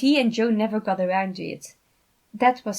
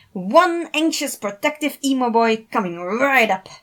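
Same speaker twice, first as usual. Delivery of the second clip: dramatic introduction; 4 semitones higher, 8 dB louder than usual. A narrator's reading. Thomas introduces Virgil to the sides, dramatic announcer voice. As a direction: announce it like a game-show host. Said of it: "continued with a dramatic introduction".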